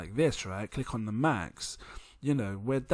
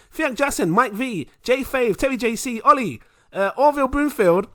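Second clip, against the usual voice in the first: high, loud hype announcer reading names; shout-out roll call; 10 semitones higher, 8 dB louder than usual. Real, not acted. Host thanking patrons on a long list, hyped roll call. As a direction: belt out each name like a roll call.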